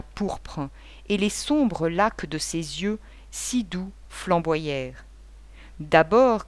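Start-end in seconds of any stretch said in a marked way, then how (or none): 5.8-6.5 lancé fort, d'un coup; crie-le à la figure du beau-père; cri. Acted. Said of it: "cria-t-elle". (cri indigné de la jeune fille)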